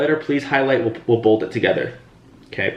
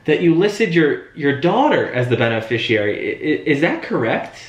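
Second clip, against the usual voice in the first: curious; 4 semitones higher than usual. Shown as a demonstration. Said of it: "curiosity, eyebrows come in".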